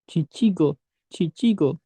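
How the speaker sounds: "cicigo" in even syllables with ch sounds, falling end; pronunciation demo. Shown as a demonstration. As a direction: model "cicigo" for learners. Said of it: "dibacanya cicigo".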